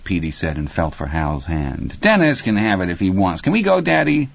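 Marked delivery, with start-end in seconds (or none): 2.0-4.3 put-on high child's plea to Daddy; small boy wanting out; pleading little boy. A narrator's reading. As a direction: pitch it up like a kid asking to go. Petey begs father to leave.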